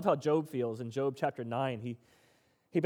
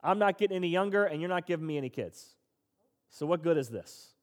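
a mild frustrated plea to God; voicing Abraham's complaint, only lightly heated; frustrated outcry; 2 semitones higher, 3 dB louder than usual. Abraham complains to God about having no kids, mildly frustrated. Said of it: "Abraham cries out".

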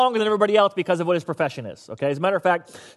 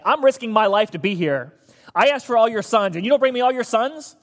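frustrated Samuel; 5 semitones higher, 4 dB louder than usual. Retold or imitated. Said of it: "hear the frustration in his voice".

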